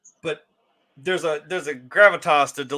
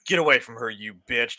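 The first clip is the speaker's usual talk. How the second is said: straight, cold; 5 semitones lower than usual. Shown as a demonstration. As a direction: deliver it stone cold, no emotion. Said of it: "just straight, cold as fuck".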